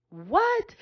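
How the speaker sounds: a hushed, breathless whisper rising at the end; awed whisper. Real, not acted. Preacher awed by the scripture, hushed whisper. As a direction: whisper it in stunned awe.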